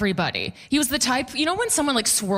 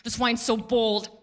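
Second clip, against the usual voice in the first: wine snob. Retold or imitated. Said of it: "He's like".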